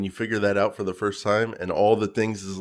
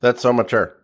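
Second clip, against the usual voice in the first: slightly raised mocking echo; parrot mimicry; 3 semitones higher than usual. Co-host echoing a complaint, mock parrot voice. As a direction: lightly parrot a co-host's retort. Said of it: "Now you sound like a parrot".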